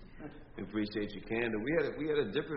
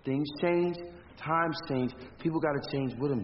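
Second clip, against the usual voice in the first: loud, firm raised voice; angry shouting; 3 semitones higher, 4 dB louder than usual. Acted. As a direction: push back hard and loud. Boss shouting back in argument.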